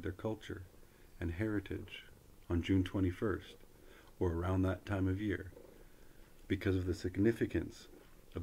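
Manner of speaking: measured, fluent announcement reading; formal read-aloud. Real, not acted. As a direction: read it out like an official notice, phrase by phrase. Reads a government web page aloud.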